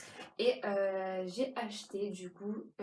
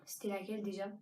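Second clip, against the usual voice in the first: whispered aside; 5 dB quieter, faster than usual. Real, not acted. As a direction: whisper to herself. Trying to remember, aside.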